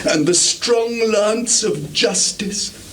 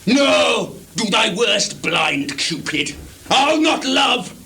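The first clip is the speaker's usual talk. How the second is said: defiant outburst; 5 semitones higher than usual. Acted. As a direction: taunt him to his face. Lear defying blind Gloucester.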